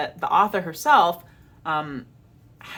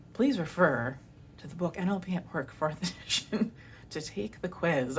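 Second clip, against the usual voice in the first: softer, sweetly polite; nice way; 7 dB quieter than usual. Retold or imitated. Politely messaging the rights holder, soft and sweet. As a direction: gently point him to the book. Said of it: "I said it in a nice way".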